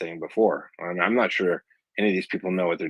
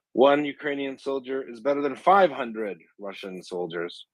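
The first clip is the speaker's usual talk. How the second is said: mock calling out; 6 semitones higher than usual. Joke teller as a Ukrainian taunting the Russian general, mock call. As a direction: imitate a far-off yell without the volume. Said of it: "Then the voice calls out".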